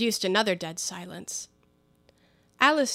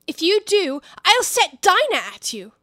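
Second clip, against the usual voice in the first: raised, high threat; called out loud; 8 semitones higher, 7 dB louder than usual. Acted. Alice shouting a threat at the animals outside, raised voice. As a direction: shout a warning through the window. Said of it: "called out as loud as she could".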